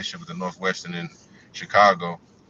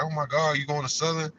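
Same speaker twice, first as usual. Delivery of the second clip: higher-pitched imitation of an excited schoolmate; excited girl; 6 semitones higher than usual. Girl at school asking about Southern, excited. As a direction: mimic her eager, surprised question. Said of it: "she was so excited about it".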